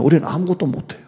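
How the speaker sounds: ordinary delivery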